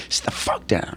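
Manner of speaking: hushed, voiceless mock-aggressive command; aggressive order. Aggressive cop shoving him down, hushed retold menace. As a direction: retell a cop's aggressive order under the breath. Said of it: "the really most aggressive one".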